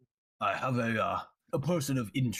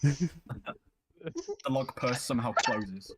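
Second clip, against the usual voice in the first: slow dramatic narration; 2 semitones higher, much slower than usual. Acted.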